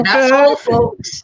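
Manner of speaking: high cartoon announcer voice; mock Looney Tunes sign-off.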